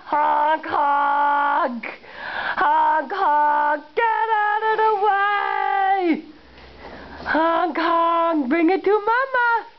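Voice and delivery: put-on high playful truck honks to baby; goofy sing-song toddler play; silly clown.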